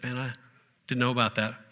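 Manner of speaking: soft, mildly stunned gym guy; quiet surprise. Retold or imitated. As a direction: let it slip out softly. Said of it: "he said".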